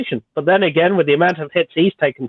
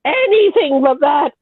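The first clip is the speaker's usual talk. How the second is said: mock pleading; 14 semitones higher than usual. Mock begging over the nail clippers.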